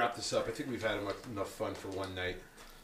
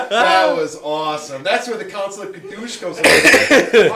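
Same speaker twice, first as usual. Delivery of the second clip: excited; 9 semitones higher, 19 dB louder, slower than usual. Real, not acted. Loud excited laughing talk.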